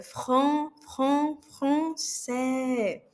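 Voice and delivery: "Fran-, fran-, français" repetindo o R de garganta; throaty R drilled. Shown as a demonstration. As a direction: isole o R gutural e depois a palavra. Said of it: "Limpando a garganta". (R gutural repetido)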